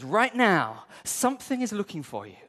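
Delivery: hammed-up promise of riches; Joel Osteen. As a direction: sell the blessing like a prosperity preacher. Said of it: "He says".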